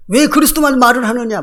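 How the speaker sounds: high, mock accusing challenge; nagging challenge. Preacher mimics critics attacking talk of Christ, nagging challenge. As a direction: imitate a critic who won't let it go. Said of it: "막 이러고 물고 늘어지잖아요".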